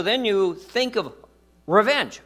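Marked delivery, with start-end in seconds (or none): 1.7-2.2 revenge hit loud and sharp; punched word. Real, not acted. Preacher warning congregation, revenge punched loud. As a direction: land hard on revenge.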